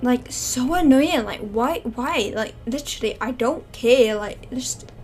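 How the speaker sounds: loud annoyed. Pretend. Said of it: "he'd be like".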